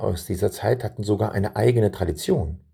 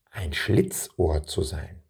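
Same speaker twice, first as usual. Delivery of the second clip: put-on slow, softer question to children, Schlitzohr drawn out; slow quiz question; 3 semitones lower, 4 dB quieter, slower than usual. Shown as a demonstration. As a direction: ask the children slowly, stretching Schlitzohr. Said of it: "Was bedeutet es".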